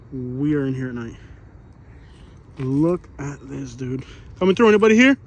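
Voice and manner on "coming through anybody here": loud call into the dark. Real, not acted. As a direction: call out to anyone hiding. Calling out into dark camp.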